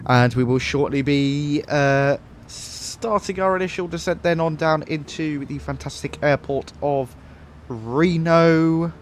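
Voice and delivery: lightly put-on airline captain addressing the cabin; pilot voice. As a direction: do a leisurely pilot announcement. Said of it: "We gotta do the pilot voice".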